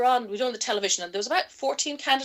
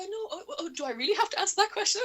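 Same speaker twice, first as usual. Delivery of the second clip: mock reluctant whine; 10 semitones higher, 5 dB quieter than usual. Reluctant reply on live TV.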